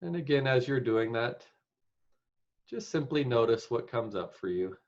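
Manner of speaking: unhurried meditation guide with long pauses; guided meditation. Real, not acted. Meditation leader settling the group into the present moment, guided meditation. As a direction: guide them gently, leaving space between phrases.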